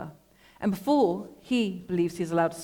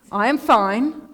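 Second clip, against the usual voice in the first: curt; 4 semitones higher, 8 dB louder, much slower than usual. A narrator's reading. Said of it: "I reply curtly".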